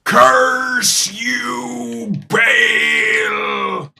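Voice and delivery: a ham villain cursing his foe; booming theatrical curse; game villain cry. Acted. Game character voice line.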